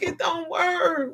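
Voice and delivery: pained cry on work; crying out in frustration. Real, not acted. Vlogger cries out at people stopping his help, pained. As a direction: let It don't work break into a cry. Exasperated outburst.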